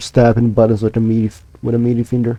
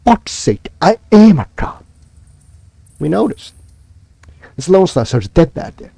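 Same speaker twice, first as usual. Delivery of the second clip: high, loud frustrated outburst; angry outburst; 6 semitones higher, 3 dB louder than usual. Acted. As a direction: snap it out in disbelief. Cop NPC outburst.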